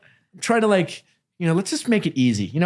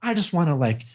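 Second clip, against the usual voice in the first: Southern voice. Retold or imitated. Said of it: "I don't know why I'm talking in a Southern voice".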